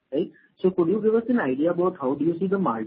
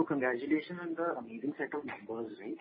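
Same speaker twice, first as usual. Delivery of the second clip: too quiet; 2 semitones lower, 13 dB quieter than usual. Real, not acted. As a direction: speak too softly to be heard clearly. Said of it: "can you speak louder, bhai?".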